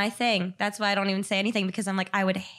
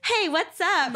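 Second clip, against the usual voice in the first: casual; 8 semitones higher, slower than usual. Retold or imitated. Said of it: "And then I'm like".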